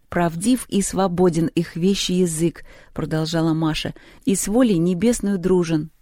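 poem recitation. Acted. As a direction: declaim the line evenly. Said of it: "Это Пушкин".

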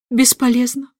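mild despairing groan; a touch of a moan, slow; groaning king. A narrator's reading. King groans over his failed lesson, slow mild moan. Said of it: "застонал король".

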